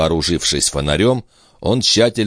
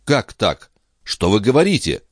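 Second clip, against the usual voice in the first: objecting; 5 semitones higher than usual. Acted. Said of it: "возразил Филипп".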